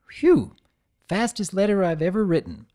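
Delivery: put-on high relieved phew from the young dragon; young dragon, breathless and pleased; Spike voice. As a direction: puff out in relief, then brag. Spike relieved after writing.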